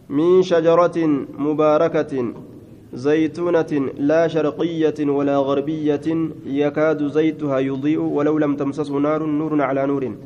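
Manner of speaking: measured recital of a holy verse, drawn out at first; Quran recitation. Acted. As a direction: recite it as scripture, stretching the long vowels.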